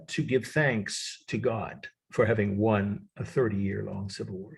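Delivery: slowly, for note-takers; slow repeat. Shown as a demonstration. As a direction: spell out the key point unhurriedly. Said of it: "I'll repeat this slowly".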